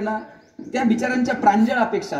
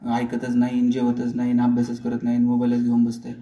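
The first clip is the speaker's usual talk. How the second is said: complaining parent; 8 semitones lower than usual. Retold or imitated. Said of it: "पाहुण्याचे देखत आपण म्हणणार".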